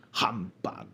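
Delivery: breathy whispered humbug; whispered scoff. Acted. Scrooge whispering "Humbug" to the ghost, dismissive. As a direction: mutter "Humbug" under the breath, scornful.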